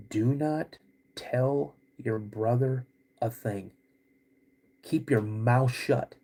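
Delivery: slow, hushed warning; stern dad. Retold or imitated. Father orders son to keep the secret, slow stern hush. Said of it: "he's like".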